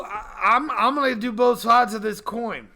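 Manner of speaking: ordinary talk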